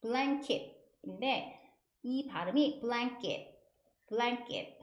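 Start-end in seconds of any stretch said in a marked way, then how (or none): 2.8-4.8 "blanket" with the k tensed like Korean ㄲ; blanket, middle k hard and unaspirated like 쌍기역; tense k sound. Shown as a demonstration. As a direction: model blanket as blang-kket. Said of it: "쌍기역처럼 납니다".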